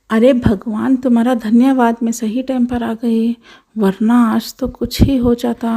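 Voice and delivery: an aunt thanking God after the snake leaves, relieved; relieved older woman. Acted.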